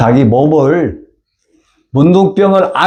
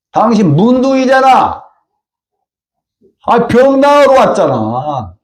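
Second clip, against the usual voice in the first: blunt confronting; 8 semitones higher than usual. Retold or imitated. Servants confront the general bluntly.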